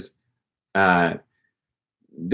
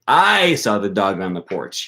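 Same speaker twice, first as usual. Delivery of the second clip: I stressed, slower. Shown as a demonstration. Teacher shows stress on I, not you. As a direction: punch the word I. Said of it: "You didn't see it".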